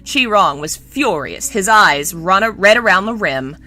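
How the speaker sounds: measured audiobook narrator; composed storytelling read; story narration. A narrator's reading. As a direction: narrate the scene evenly and clearly.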